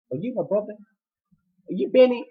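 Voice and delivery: high, incredulous mock question; startled realization. He realizes who the intruder is, startled. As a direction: ask it in high-voiced disbelief.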